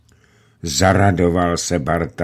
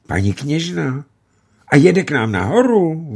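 higher, louder eager questions; excited calling; 9 semitones higher, 4 dB louder than usual. A narrator's reading. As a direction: call out in disbelief and hope. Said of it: "volali všichni".

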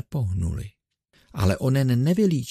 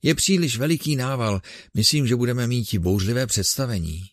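raising his voice; 3 semitones higher, faster than usual. Acted. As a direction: boom it out for the crowd. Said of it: "A zesiluje hlas".

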